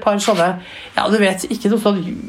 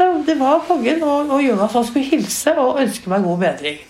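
insistent excitement; 5 semitones higher than usual. Retold or imitated. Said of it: "sa jeg".

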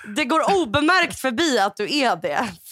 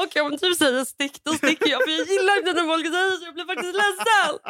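mock hurt; 4 semitones higher than usual. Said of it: "Så kommer jag bara".

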